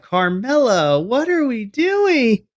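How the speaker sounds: high, loud, drawn-out scolding; exasperated outcry. Retold or imitated. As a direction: wail at him in mock disbelief. Acting out exasperation at Carmelo.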